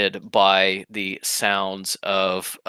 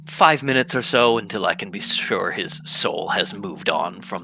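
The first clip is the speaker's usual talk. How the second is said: courteous assassin; 2 semitones lower than usual. Acted.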